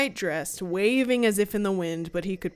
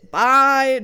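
quick loud bye; 5 semitones higher, 9 dB louder than usual. Retold or imitated. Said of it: "So he's like".

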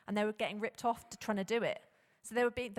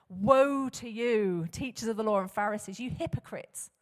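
stern rebuke; 6 dB louder than usual. Retold or imitated. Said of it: "I can't imagine he's saying that in a particularly calm voice".

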